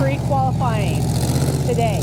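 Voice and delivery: loud, high shout over engine noise. Real, not acted. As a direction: yell to be heard over the motor. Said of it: "can hear me over the roar of the engine".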